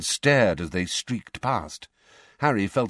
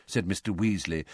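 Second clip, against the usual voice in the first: ordinary delivery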